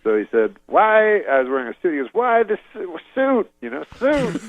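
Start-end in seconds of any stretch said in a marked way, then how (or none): 0.6-1.2 high clipped mock Cosby; imitating Cosby. Voicing Bill Cosby. 2.1-3.5 high, broken-off mock Cosby; choppy Cosby imitation. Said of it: "he doesn't use full sentences". 4.0-4.4 high, broken-off mock Cosby; choppy Cosby imitation. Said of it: "he doesn't use full sentences".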